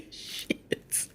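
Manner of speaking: under-the-breath whispered shit; soft whispered swear; whispered curse. Real, not acted. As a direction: hiss it to yourself.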